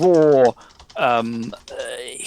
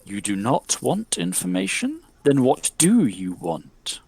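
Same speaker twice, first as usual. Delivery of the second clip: drip each word out like honey; honeyed spirit voice. Acted. Spirit questioning the player, slow honeyed murmur. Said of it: "the spirit goes".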